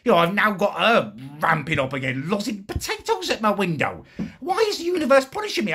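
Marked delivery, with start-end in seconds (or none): 4.4-5.7 high, fast, loud wail; fast high wail at the universe; exasperated outburst. Real, not acted. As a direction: cry out to the heavens. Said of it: "Apologies for my earlier outburst".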